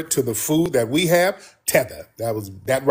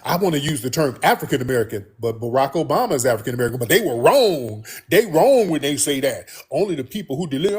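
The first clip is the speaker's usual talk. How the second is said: imitating someone rushing through a muddled justification; fast talking; faster than usual. Host imitates a woman defending the term African American, fast talking. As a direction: rattle it off without stopping. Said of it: "just keep talking fast".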